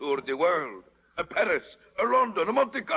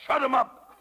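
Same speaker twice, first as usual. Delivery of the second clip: angry bark; 9 semitones higher, 4 dB louder than usual. Acted. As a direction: silence him with a roar. Stromboli silences the puppet.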